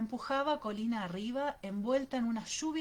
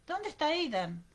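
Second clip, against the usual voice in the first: raised, urgent question; alarmed question; 7 semitones higher, 4 dB louder than usual. A narrator's reading. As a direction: ask in rising alarm. Mother panics over missing child. (pregunta alarmada y urgente)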